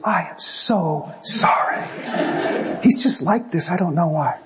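a wife excusing her talkative husband, whispered; apologetic wife. Retold or imitated. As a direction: say sorry for him in a hushed, embarrassed voice. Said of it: "his wife comes over and she goes".

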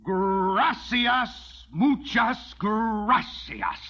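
slow, biting mock gratitude; sour, slow sarcastic thank-you. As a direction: drag out the thanks with contempt. Sarcastic thanks after refusal.

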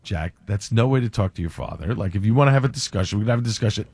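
calm and firm. Retold or imitated. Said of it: "So I am very calm at this point".

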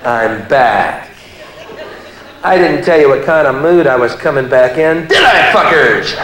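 an angry Jesus back for revenge; pissed-off Jesus. Pretend. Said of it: "he's pissed off".

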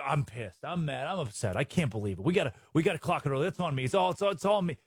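mock coach. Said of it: "You don't need to come into".

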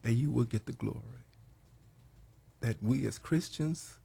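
hushed, earnest opening prayer. Acted. Radio host praying over his program.

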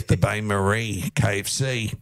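slow, even robot voice. Pretend. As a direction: speak it like a robot voice alert. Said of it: "The little robotic voice in your ear".

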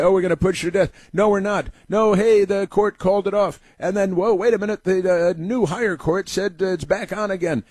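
high, lightly voiced officials flip-flopping; mock officials. Officials announcing the execution is off then on, mock high voice.

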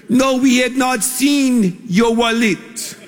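imitating a Peruvian restaurant manager, slow; Peruvian accent. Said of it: "That's my best Peruvian accent".

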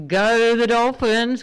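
rally the fans, drawn out; cheering. Real, not acted. Cheering on footy team.

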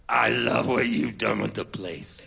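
put-on low, slow dry drawl of an older man; lightly voiced singer-songwriter, dry and unbothered; a singer's dry quip. Storyteller voicing a singer's dry remark about the messy van.

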